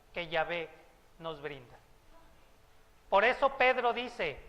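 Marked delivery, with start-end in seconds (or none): none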